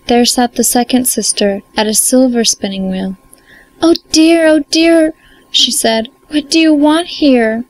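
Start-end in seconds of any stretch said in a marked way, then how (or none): 3.8-7.6 high, alarmed princess voice; a startled princess, voice up high; cartoon princess. Frightened princess in story.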